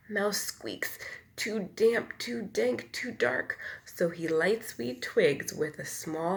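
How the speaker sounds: lively bedtime storybook read; reading to children. A narrator's reading. Reader to children, lively storybook voice. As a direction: tell it like a picture book to little ones. Reads picture book aloud.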